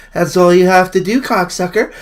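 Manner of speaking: loud, high-pitched ranting shout; exasperated yelling. Real, not acted. Ranting at Canadian politicians about the border, exasperated shout. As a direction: blow up as if the answer is obvious.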